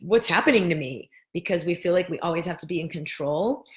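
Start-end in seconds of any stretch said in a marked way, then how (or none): 0.0-1.1 mock fear.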